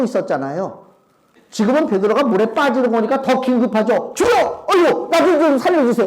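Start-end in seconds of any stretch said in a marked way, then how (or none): 4.1-6.1 desperate cry. Retold or imitated. Pastor voicing drowning Peter begging for help. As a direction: cry for rescue while going under.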